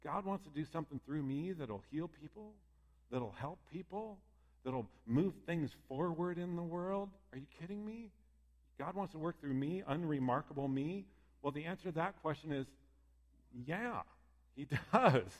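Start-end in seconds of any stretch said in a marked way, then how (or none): 0.0-11.0 disbelieving. Retold or imitated. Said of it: "our first thought is usually".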